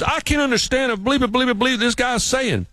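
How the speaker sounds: high-pitched mock exasperation; exasperated imitation, words stretched out high; baffled coworker. New England coworker baffled by Bill Elliott, exasperated.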